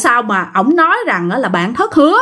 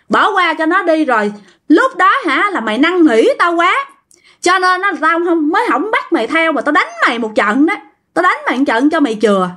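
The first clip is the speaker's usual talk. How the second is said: scolding spirit; 3 semitones higher than usual. Retold or imitated. Possessed spirit scolds the niece.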